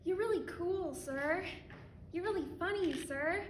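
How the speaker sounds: butter him up insincerely; fake flattery. Flattering a man she resents, mock sweetness.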